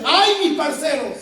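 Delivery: loud, slow mock lament; mock wail. A Colombian version of la Llorona's cry, mock wailing. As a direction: cry it out long and hammed-up.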